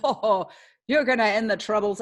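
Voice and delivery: scoffing quote before the brogue; mock the housewives lightly, no accent yet; mocking men. Men laughing at housewives, mild mocking scoff. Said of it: "all the men laughed at them and said".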